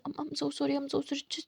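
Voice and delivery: a partner soothing her; soft apology. Acted. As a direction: plead quietly. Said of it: "सारी मस्ती सोचते हैं".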